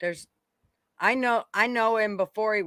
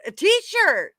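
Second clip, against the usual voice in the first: quoting herself; 10 semitones higher, 6 dB louder than usual. Retold or imitated. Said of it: "And I said".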